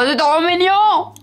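slow cooing delight; gushing. Real, not acted. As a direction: coo over something adorable. Gushing over tiny lipsticks.

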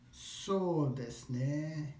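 very drawn-out "So desu ne"; slow, pondering delivery; slow, thinking. Shown as a demonstration. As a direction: stretch "So" and "ne" while you think. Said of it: "Say it slowly".

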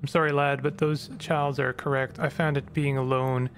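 flat, even robotic monotone. Acted. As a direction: read it like a machine. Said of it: "after I'm done the robot voice".

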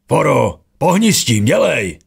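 a frantic roar at full strength. A narrator's reading. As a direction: yell through metal doors for him to hurry. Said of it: "Zařval, co mu síly stačily".

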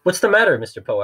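mock-concerned villain asking Mister Poe. A narrator's reading. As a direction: call out to find what's wrong. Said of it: "asked Stefano and Doctor Lucafunt".

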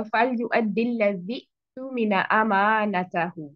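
slow recitation, लज़ी joined straight into तुमिना with no ऊ; joined reading. Shown as a demonstration. Teacher reads the verse in connection, joined pronunciation. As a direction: link लज़ी to तुमिना, slowly and evenly. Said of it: "जब मैंने उसको वसन में पढ़ा".

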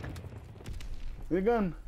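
slow, soft whisper; a whispered, drawn-out plea for a gun. Shown as a demonstration. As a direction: breathe it out, almost defeated. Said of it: "repeating the line in new ways".

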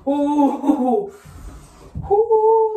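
sharp rising ooh from icy water; gasping from the cold. Real, not acted. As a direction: yelp at the freezing water. Stepping into ice bath.

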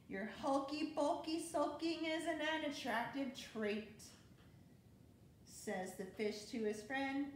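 lively storybook read-aloud; bouncy rhyming picture-book narration; reading to children. A narrator's reading. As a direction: read it like bedtime story time for kids.

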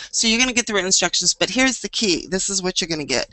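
fast, upbeat sales pitch; infomercial voice. Pretend. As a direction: sell it like a TV ad host. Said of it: "I sound like an infomercial".

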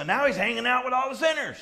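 high, mocking gossip voice; mock the religious leaders' outrage; scandalized Pharisee. Pharisees complain about Jesus.

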